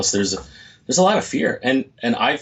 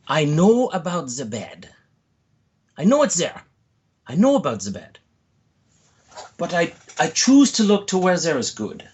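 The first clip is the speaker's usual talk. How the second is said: put-on Alice Somers' accent; 7 semitones higher than usual. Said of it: "I'll try to do her accent".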